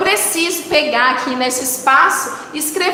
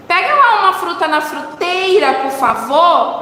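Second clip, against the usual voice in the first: everyday request; 3 semitones higher than usual. Acted. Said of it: "A gente fala assim".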